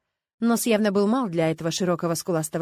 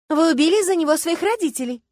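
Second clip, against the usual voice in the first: higher, louder blurted accusation; 9 semitones higher, 7 dB louder than usual. A narrator's reading. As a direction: fire it out all at once. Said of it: "выпалила Люська".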